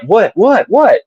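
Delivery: rising high feigned confusion; mock innocent what. Date playing innocent while everyone laughs, rising high. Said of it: "she's like".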